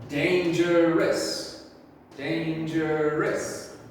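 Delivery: very slow, drawn-out dangerous; slow modelling. Shown as a demonstration. Teacher modelling the word for pupils, very slow. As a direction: stretch every syllable out slowly. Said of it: "teacher first and you second".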